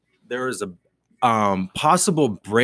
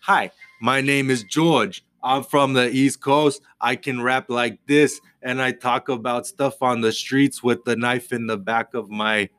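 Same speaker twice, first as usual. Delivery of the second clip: impression of George. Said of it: "a quick impression of you doing me".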